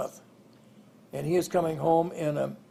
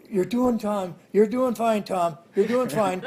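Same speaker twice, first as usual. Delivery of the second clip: coaxing encouragement; 4 semitones higher, 3 dB louder than usual. Retold or imitated. Mother coaxing toddler on beam.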